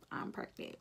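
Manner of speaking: breathy, hushed I'm pregnant; unvoiced whisper of the news; whispered confession. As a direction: barely say it aloud to your mom. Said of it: "And I'm like".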